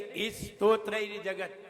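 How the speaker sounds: स्तोत्रैर्जगत with an added i sound before it; mock the student's extra vowel; wrong stotrairjagat. Shown as a demonstration. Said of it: "ई नहीं है".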